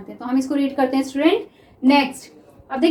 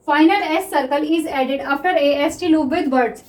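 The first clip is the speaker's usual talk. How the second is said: reads the rule out word by word, very slowly; slow dictation; much slower than usual. Shown as a demonstration. Teacher dictating a rule to students, very slow. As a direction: spell the rule out slowly so students can copy it. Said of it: "teacher dictates a rule".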